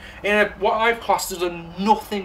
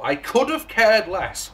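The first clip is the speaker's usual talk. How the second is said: mocking American saying; 2 semitones higher than usual. Shown as a demonstration. Reviewer mocking the American saying, slow and raised. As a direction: hold the phrase up for ridicule. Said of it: "as they say".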